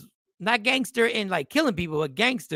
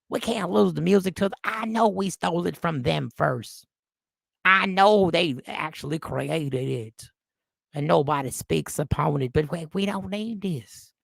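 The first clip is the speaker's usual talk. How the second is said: grumbling in a put-on country accent; bad country accent. Bar regular griping about a rapper taking over, exaggerated country accent. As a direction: play a resentful Southern country complainer. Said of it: "That is the worst country accent ever".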